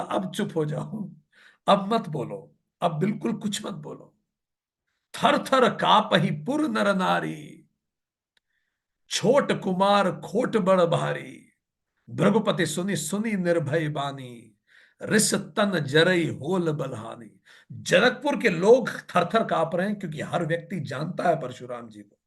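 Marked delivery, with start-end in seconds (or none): 0.0-4.1 softly voiced, mildly worried plea; understated nervous plea for silence; frightened hushing. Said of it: "Janak जी डर गए". 5.1-17.4 slow, drawn-out scripture chanting; measured devotional verse reading; verse recitation. Acted.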